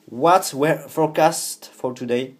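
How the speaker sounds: slow, high, loud accented English; careful French-accented English for the assistant; slow, loud English to Siri. Real, not acted. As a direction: spell it out slowly in English for the phone.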